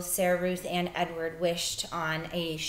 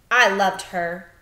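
grieving father; 11 dB louder, slower than usual. Acted. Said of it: "said the father".

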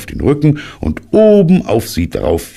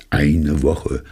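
düster. Acted. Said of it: "sagte Puh düster".

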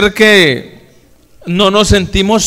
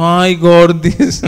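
slow, drawn-out loving coo; affectionate cooing; much slower than usual. Retold or imitated. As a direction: stretch out the pet name tenderly.

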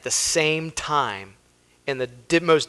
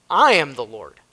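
I punched loud, the rest falling away; stress on I; 6 dB louder than usual. Shown as a demonstration. Preacher repeating God's claim to the congregation, stress on I. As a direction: hit I hard at the start. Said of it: "put an emphasis on the word I".

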